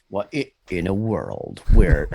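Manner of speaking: slow, low trailer narrator opening; movie trailer voice. Retold or imitated. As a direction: start it like a film trailer. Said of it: "the movie trailer guy".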